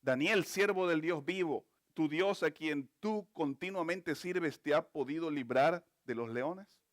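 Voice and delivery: king calling into the lions' den, understated sadness; mildly sad call. Acted. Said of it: "con voz triste".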